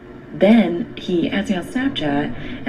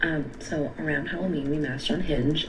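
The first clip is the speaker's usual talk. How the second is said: whispering on the phone; 7 dB quieter than usual. Real, not acted. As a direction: keep it quiet like others are near. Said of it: "Why you whispering?".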